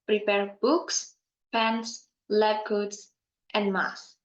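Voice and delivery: "books" lifted, closing "and masks" dropped to finish; list intonation. Shown as a demonstration. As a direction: read the items one by one, falling on "masks". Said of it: "falling intonation".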